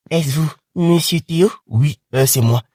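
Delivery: a hint of a dad picking up; dad on phone.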